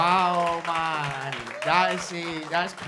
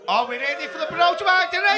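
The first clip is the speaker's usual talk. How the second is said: big MC introduction, stretched at the end; announcer shout; 3 semitones higher, faster than usual. Real, not acted. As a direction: hype the crowd and bring on the act. Host introducing the next act.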